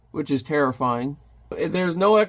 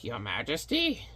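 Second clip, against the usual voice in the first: lightly voiced soft minion; hushed, tentative question to a superior; timid minion; 3 semitones lower, 9 dB quieter than usual. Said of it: "that little Timon guy".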